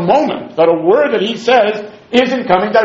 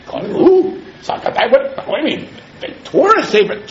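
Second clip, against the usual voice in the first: mock shock; 5 semitones higher than usual. Mock shocked student reaction.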